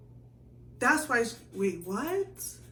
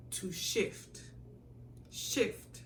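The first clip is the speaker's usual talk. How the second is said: whispered word; 4 dB quieter, much slower than usual. Shown as a demonstration. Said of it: "Nigerian people say shift as in move".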